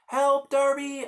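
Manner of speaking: high, loud, slow scream; scream for help. Retold or imitated. Captive brother screaming to Darby. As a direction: scream the name for rescue. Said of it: "I scream".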